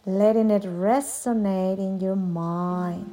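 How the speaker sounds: guided meditation, long pauses. Acted. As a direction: lead a yoga nidra, unhurried. Leads a yoga nidra meditation.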